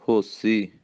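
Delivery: ordinary delivery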